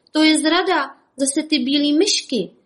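high, loud angry outburst; furious rant. Acted. Trapped bandit raging at the rabbits, furious. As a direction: spit it out in trapped rage. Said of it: "vztekal se Joe Desperado".

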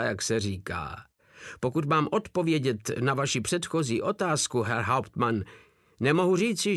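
a hint of a naive, over-formal soldier; Drobeček character voice. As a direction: play the dim private reporting stiffly to his captain.

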